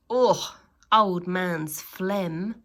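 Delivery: slow, loud, grossed-out reading; disgusted. Acted. Reader reads the phlegm jar label with slow disgust. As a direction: drag out the disgust word by word.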